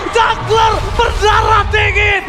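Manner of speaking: fighting game announcer. Real, not acted. Caster hypes a triple kill.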